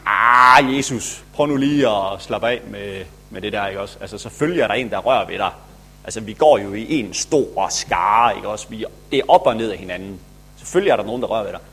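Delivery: lightly voiced casual Peter brushing it off; the cool Peter. Peter telling Jesus to relax, lightly casual. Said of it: "han er lidt den seje".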